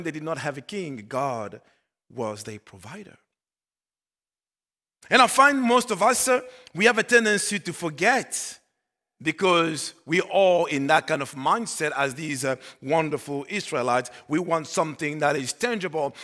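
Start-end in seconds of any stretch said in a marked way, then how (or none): 5.1-11.9 raised, forceful preaching voice. Acted. Pastor on what people tend to forget, preaching. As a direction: press it on the congregation, louder and higher.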